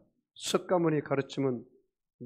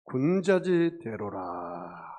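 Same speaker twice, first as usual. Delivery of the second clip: slow, raised, drawn-out pronouncement; acted lofty sage; 5 semitones higher, 3 dB louder, much slower than usual. Passerby to sinking man, slow lofty pronouncement. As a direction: intone it like a passing sage. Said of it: "그 사람이 뭐라고 한지 아십니까".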